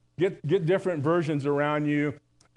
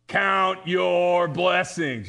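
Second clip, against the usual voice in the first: firm reminder; much slower than usual. Retold or imitated. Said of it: "my mom would say".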